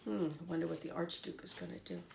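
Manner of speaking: soft, fast murmured aside; quiet aside. Real, not acted. Reader wondering aloud to the listening children. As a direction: lean in and wonder softly.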